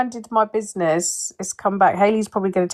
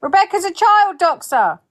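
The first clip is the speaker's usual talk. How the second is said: high-pitched mock outcry; mock accusation; 10 semitones higher than usual. Heckler cuts into a friend's explanation, high mock outcry. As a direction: pipe up with a high, exaggerated accusation.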